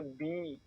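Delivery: "बी" voiced from inside, with some stress. Shown as a demonstration. Teacher showing learners the heavy B sound, stressed. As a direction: press a little on the voiced "बी". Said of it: "थोड़ा सा stress देके आपको बोलना होता है".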